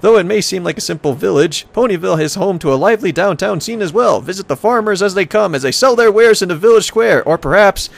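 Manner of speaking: hammy travel-brochure announcer; tourism ad read. Acted. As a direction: sell the town like a promo. Reads travel brochure aloud.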